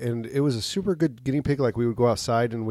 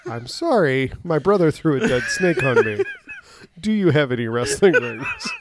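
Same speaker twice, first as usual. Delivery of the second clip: high voice, laughing; man doing a woman's voice; 6 semitones higher, 5 dB louder than usual. Retold or imitated. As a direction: retell it in a high giggly voice. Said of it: "I explained it".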